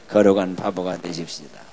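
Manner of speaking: low, loud, measured lead; loud group prompt. Shown as a demonstration. Preacher leads congregation greeting each other after the cue, loud. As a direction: lead everyone firmly in saying it.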